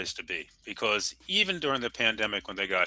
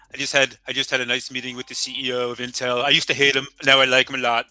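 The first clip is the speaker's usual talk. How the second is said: booming boastful politician voice, louder; politician impression; 2 semitones higher, 6 dB louder than usual. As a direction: brag like a president at a podium. Mock presidential statement about Intel.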